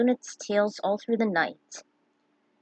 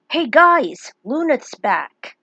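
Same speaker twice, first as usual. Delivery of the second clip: loud excited village elder call; 5 semitones higher, 9 dB louder, much slower than usual. Acted. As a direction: shout the news to the whole village.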